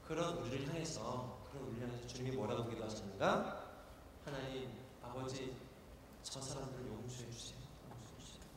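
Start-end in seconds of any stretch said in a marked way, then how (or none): 4.2-7.6 soft pleading prayer. Acted. Jesus on the cross begs the Father, softly pleading. 7.9-8.4 breathless whisper of a plea. Acted. Jesus on the cross pleads for forgiveness in a whisper.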